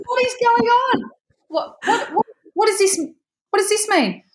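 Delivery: high, tearful, stammering disbelief; overwhelmed excitement. Retold or imitated. Asking the shop girls what it means, tearful and excited. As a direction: stumble over the words, near tears with joy. Stunned by the ticket offer.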